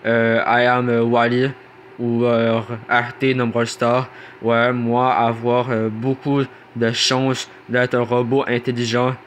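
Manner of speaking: stiff robot voice. Acted. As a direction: speak like a slow robot. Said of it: "si je parle comme un robot".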